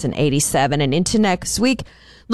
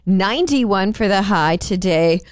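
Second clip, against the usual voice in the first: perky news delivery; 3 semitones higher than usual. Real, not acted. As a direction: deliver the forecast with a perky lift. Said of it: "Can you hear the perky voice".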